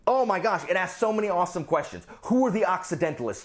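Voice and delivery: high-pitched, gushing excitement; real, runaway enthusiasm; getting too excited. Real, not acted. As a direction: get carried away raving, pitch riding high. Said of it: "I'm getting too excited".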